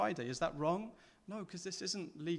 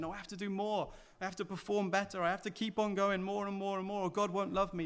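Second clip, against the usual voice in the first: higher, pleading voice of a worn-out believer; anxious striver; 4 semitones higher than usual. Retold or imitated. Preacher voicing an anxious believer to the church, frantic. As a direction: plead fast as if never doing enough.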